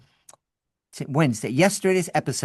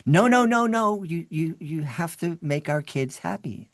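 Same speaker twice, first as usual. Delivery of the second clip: insistent pleading; 3 semitones higher than usual. Retold or imitated. Host begs the magician to still do the show, insistent then pleading. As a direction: insist he can't leave, then beg.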